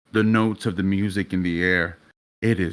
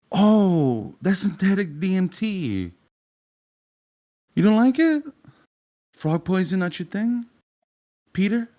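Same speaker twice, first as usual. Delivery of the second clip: high, sing-song mock sympathy; mocking taunt; 8 semitones higher than usual. Auburn toying with his drugged victim, mocking taunt. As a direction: toy with him in rising, high-pitched questions.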